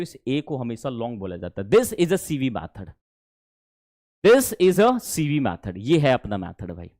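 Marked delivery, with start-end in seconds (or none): 1.7-2.9 slow, deliberate teaching read; slow model sentence. Shown as a demonstration. Teacher reads the method out slowly for the class. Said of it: "slow model sentence". 4.3-5.7 very slow, careful enunciation; slow model sentence again. Shown as a demonstration. Teacher repeats the method slowly for the class. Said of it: "slow model sentence".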